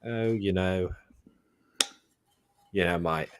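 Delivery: lightly put-on, slipping British pirate voice; Jack Sparrow. Host showing how his accent ends up, light pirate impression. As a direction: let a bad British accent drift toward pirate. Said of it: "more of a Jack Sparrow eventually".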